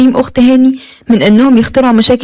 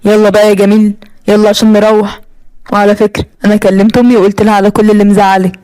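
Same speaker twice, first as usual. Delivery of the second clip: husband's voice; 4 semitones lower than usual. Acted. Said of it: "هو قال لي".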